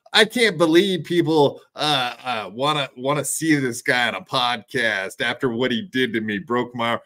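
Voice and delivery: mock whining, lightly voiced; whiny imitation. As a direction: whine it like a sore loser. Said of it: "he was crying and whining".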